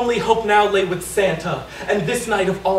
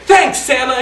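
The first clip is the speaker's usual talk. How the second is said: excited exclaim; 3 semitones higher, 5 dB louder than usual. Acted. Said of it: "exclaimed little Tony".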